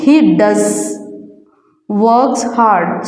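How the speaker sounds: "does" held firmly, with a pause after it; stress on DOES. Shown as a demonstration. Teacher pointing out the emphasized word, stress on "does". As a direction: lean on "does", then pause before "works hard". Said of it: "using the stress on does".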